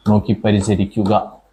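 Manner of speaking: slow, clear repeat of "നോക്കി പരിചരിക്കുക" for students to write; slow dictation. Shown as a demonstration. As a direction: say "നോക്കി പരിചരിക്കുക" slowly and evenly, word by word. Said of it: "repeated slower for dictation".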